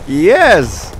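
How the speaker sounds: loud, swooping cheer; triumphant yell. Real, not acted. Player celebrates the bomb, triumphant yell. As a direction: shout it out in victory.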